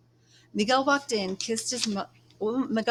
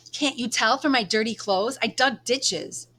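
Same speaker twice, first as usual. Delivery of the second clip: sharp and bitter, higher and louder; 4 semitones higher, 6 dB louder than usual. Acted. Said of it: "His voice was sharp".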